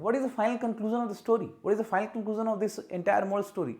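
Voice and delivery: slow, drawn-out wrong example. Shown as a demonstration. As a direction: read the wrong sentence slowly. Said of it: "नहीं".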